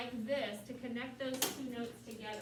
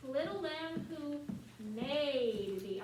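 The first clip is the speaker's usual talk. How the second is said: "made" hit louder after a slower "little lamb who"; stress on made; 2 semitones higher, 3 dB louder, much slower than usual. Shown as a demonstration. Choir teacher showing where the accent goes, "made" stressed. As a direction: lean hard on the word "made". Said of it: "we're gonna emphasize made".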